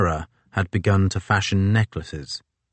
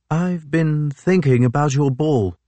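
Fitzjames voice; 8 semitones higher, 3 dB louder than usual. A narrator's reading.

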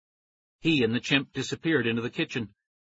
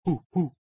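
chimp hoots; 4 semitones higher than usual. Acted. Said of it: "I said".

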